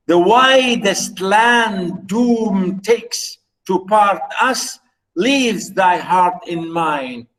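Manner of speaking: slow, measured recital of verse, each word weighed; slow poem recitation. Acted. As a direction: read the line as a poem, unhurried and solemn. Lecturer recites sonnet lines.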